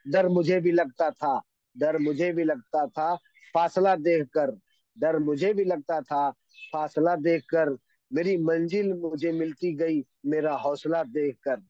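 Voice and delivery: measured couplet recital, repeating the lines with weight; reciting a couplet. Acted. Speaker recites a couplet on fear to the audience, slowly. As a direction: recite it like shayari, lingering on the repeats.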